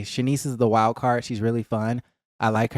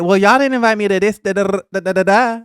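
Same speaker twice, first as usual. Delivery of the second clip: mocking Summer; 7 semitones higher, 5 dB louder than usual. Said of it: "And then Summer was like".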